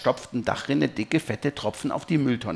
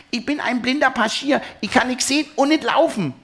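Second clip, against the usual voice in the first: hohes, lautes Kinderjammern; jammernd; 13 semitones higher, 4 dB louder than usual. A narrator's reading. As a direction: jammer gedehnt und hoch. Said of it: "jammert Tuff". (jammerndes Kleinkind)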